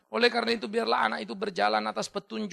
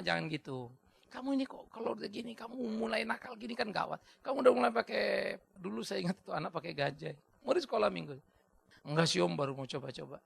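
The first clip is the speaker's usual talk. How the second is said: gentle admonishing; 4 dB quieter than usual. Retold or imitated. Gently admonishing a child in story.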